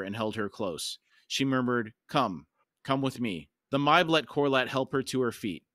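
measured, dramatic audiobook reading; story narration. A narrator's reading. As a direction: read it as solemn fantasy narration. Reads the novel aloud.

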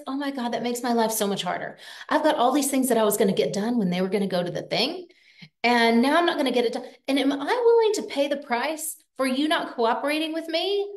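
fast, harried parent's thoughts; exasperated inner voice. Retold or imitated. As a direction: race through it like an overloaded mom. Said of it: "what you know in your own mind is".

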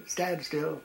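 stern order. Retold or imitated. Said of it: "the third time he said it".

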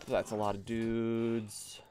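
slow "dudes", lightly drawn out; measured reaction, stretching "dudes"; slow remark. Real, not acted. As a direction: say it slowly, lingering on "dudes". First take, reaction to crowd.

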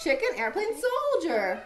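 a touch of gasping effort. Acted. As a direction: get the chant out like a struggling swimmer. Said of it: "gasped Froggy".

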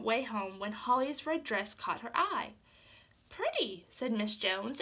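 steady storybook reading voice; gentle read-aloud narration; story narration. A narrator's reading. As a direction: read it like a bedtime tale.

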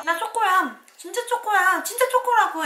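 high, loud, insistent voice; shrill show-off begging to be believed; pushy fake chocolate. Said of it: "이렇게 하는".

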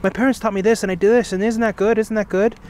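mildly mimicked eager show-off; boastful kid. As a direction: imitate a child seeking approval. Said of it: "they would tell everybody".

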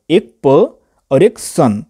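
slow, with प and सन each isolated; syllables set apart. Shown as a demonstration. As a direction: set प and सन apart as two separate beats. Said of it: "इस पर्सन में थे दो syllable".

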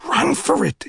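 high shouted cry. A narrator's reading. Earl fleeing, shouting back to Phil. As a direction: yell it over your shoulder. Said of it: "he shouted".

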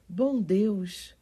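loud startled cry, falling at the end; alarmed exclamation. A narrator's reading. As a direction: burst out in shock at the sight. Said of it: "exclamou a pobre senhora Medlock".

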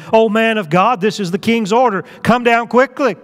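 mildly angry, insistent order; a touch of urgency in a captain's command; mad, upset. Acted. Second captain orders Elijah down, mildly mad and upset. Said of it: "He's mad, he's upset".

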